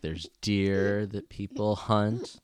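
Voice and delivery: lightly imitating a rambling child; slow, drawn-out mock kid chatter; Jana. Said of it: "did that sound just like you".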